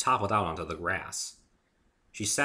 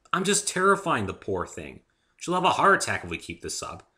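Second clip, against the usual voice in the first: anxious protest; 6 semitones higher, 7 dB louder than usual. Acted. Dave worries aloud.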